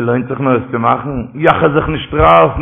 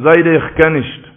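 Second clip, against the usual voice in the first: drawn-out refusal; 3 dB louder, slower than usual. Acted. Grandson's refusal in a story.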